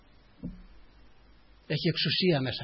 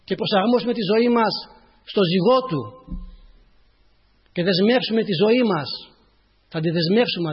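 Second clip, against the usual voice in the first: raised, emphatic sermon voice; impassioned preaching; 5 semitones higher, 6 dB louder than usual. Real, not acted. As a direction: preach it out with rising fervour.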